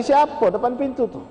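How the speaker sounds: teriak tinggi dari dalam rumah; teriakan ayah. Acted. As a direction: panggil keras siapa di luar. Ayah berteriak lagi. (ayah sakit berteriak tanya siapa di depan pintu)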